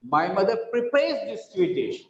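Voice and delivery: "prepares" lifted and emphasized; stress on PREPARES. Shown as a demonstration. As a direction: make "prepares" the key word. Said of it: "it's not ready-made".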